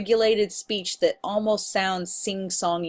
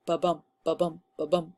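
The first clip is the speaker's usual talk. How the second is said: hoofbeat rhythm; 2 semitones lower, 5 dB quieter than usual. Shown as a demonstration. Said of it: "he wanted to create this".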